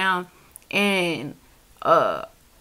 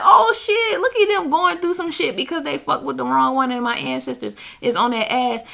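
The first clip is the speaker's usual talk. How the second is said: gleeful gloating; 4 semitones higher than usual. Retold or imitated. Gloating at a slanderer.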